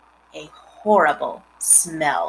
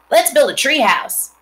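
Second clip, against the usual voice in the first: 1 eager suggestion; 7 semitones higher, 6 dB louder than usual. A narrator's reading. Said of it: "suggested Avery".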